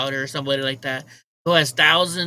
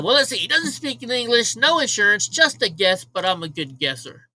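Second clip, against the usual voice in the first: higher and louder, mock-indignant retort; re-enacting her own sharp reply, raised and higher; retold raised comeback; 5 semitones higher, 4 dB louder than usual. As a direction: throw the comeback back at her, pitched up and loud. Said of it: "I said".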